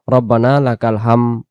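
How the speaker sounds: রব্বানা লাকাল হাম, final দ dropped; imitated mistake. Teacher mimicking the wrong recitation heard. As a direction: say হাম without the d. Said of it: "শুনে শুনে অনেকে বলি".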